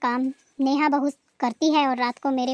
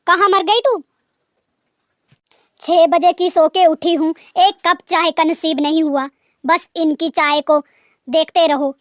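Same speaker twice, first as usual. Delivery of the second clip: loud, nagging complaint; angry scolding; 4 dB louder than usual. Acted. Mother-in-law scolding absent daughter-in-law.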